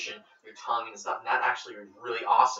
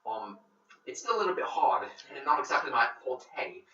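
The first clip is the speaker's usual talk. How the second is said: playful British accent, lively pitch swings; British accent attempt; 3 semitones higher than usual. Shown as a demonstration. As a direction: try on a polite British accent. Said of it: "I learned how to talk with a British accent".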